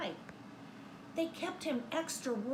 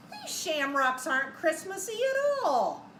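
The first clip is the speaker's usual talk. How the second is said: grumpy Santa; 4 semitones higher, 5 dB louder than usual. Acted. Santa complains in story.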